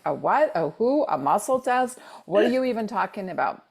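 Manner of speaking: baffled questions rising in pitch; mock incredulity. Retelling her reaction to being told about muscle testing, mock incredulous. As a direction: act out mild, quickening disbelief. Acts out baffled reply to advice.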